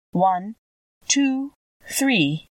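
mild solemn count. Acted. Old woman counting with the cap on her nose, mildly solemn. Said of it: "in a solemn voice".

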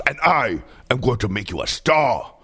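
lightly voiced sassy diva, delighted with nature; a hint of a camp diva loving the outdoors; a singer. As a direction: purr it like a fierce diva. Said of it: "a singer".

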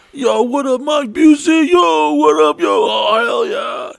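high-pitched hyped carny greeting; imitated excited ride operator; carnival carny. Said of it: "non-English speaking carnival carnies operating".

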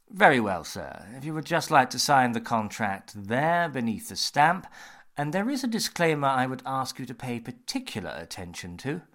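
lightly voiced deferential assistant; assistant's voice. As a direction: play the obliging clerk, a touch formal.

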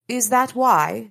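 high, tiny oracle sprite. Acted. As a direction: speak as a small stern spirit.

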